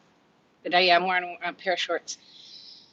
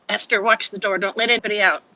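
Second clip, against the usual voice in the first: calling out; 5 dB louder than usual. Real, not acted. Owner calling to the dog Esther, called out loud. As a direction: call it across the house, louder.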